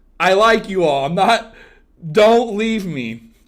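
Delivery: mock desperate pleading. Asking the viewers jokingly not to leave: mock desperate pleading. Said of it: "I sound desperate".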